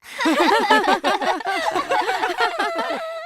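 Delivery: high, loud burst of family laughter; laughing. Acted. Family laughing at dad hopping while rubbing his head, high loud laughter. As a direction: laugh at how silly dad looks. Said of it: "trouvaient que papa avait l'air ridicule".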